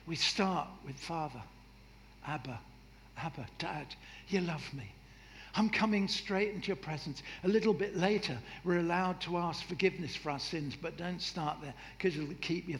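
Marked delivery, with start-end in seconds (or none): 1.0-7.2 soft, intimate "Abba, Dad"; tender prayer. Shown as a demonstration. Preacher shows the congregation a soft, tender prayer. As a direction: speak softly to a loving father.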